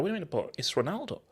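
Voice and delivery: quick, high, hushed disbelief; retold shock. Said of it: "I was just in shock".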